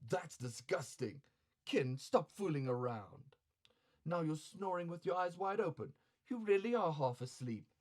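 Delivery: quiet, disgusted courtesan; softly disgusted scolding; soft woman's voice. Acted.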